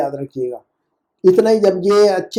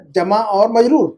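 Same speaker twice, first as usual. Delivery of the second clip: slow model phrase; slower than usual. Shown as a demonstration. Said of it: "हम पढ़ेंगे उसका".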